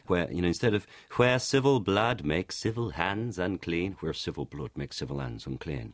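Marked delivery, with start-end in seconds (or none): 1.1-4.0 slow, drawn-out modern delivery; slow deliberate reading. Shown as a demonstration. Showing the slow modern stage delivery of the line. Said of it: "I was speaking quite quickly there". 4.0-5.9 quick, quieter and lower in original accent; faster original pace. Shown as a demonstration. Showing the faster Elizabethan delivery of the line. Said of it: "it's also faster".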